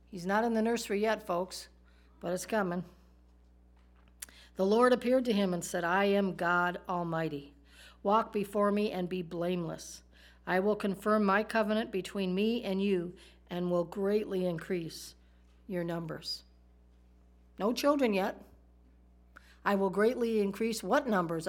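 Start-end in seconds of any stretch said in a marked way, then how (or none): 4.5-16.4 preaching the verse with weight; scripture read aloud. Acted. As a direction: declaim the verse like a pulpit reading. First reading of the scripture.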